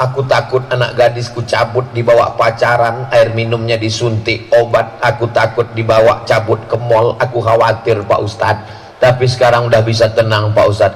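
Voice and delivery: a hint of a fretful dad confessing his fears; worried father. Doctor confides sleepless worry to the ustadz, low and anxious.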